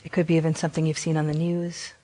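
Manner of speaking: gentle meditation guidance with long pauses; guided meditation. Acted. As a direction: guide them unhurriedly, leaving long silences between phrases. Leads a guided compassion meditation.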